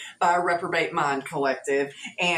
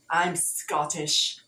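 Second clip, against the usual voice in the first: slow, badly faked British accent; terrible British accent; much slower than usual. Reader claiming Scottish roots, in a terrible British accent. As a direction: attempt a British accent and miss. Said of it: "terrible British accent".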